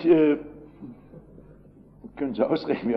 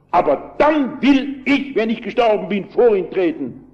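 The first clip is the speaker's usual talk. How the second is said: retold shouting; 5 semitones higher than usual. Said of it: "so schrie der Mann".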